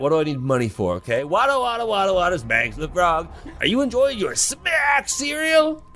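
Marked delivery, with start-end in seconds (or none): 1.2-5.8 high, singsong catchphrase; cartoon frog mascot. Frog mascot pitching cereal to a child, high cartoon patter. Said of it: "the mascot appears as they usually do in commercials".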